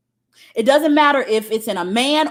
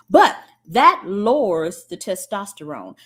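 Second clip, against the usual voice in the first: ordinary talk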